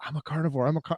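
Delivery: hushed half-whisper, broken off mid-word. Retelling how people coming in say they're carnivores: imitating someone half-whispering. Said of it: "Why are you whispering?".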